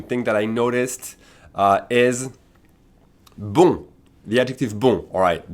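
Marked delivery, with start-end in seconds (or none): 3.4-3.9 "bon" with a nasal vowel and silent n, loud; nasal on sound. Shown as a demonstration. Teacher introducing the adjective, nasal on sound. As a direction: say "bon" loudly on its own, ending in nasal on. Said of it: "The O N is an on sound".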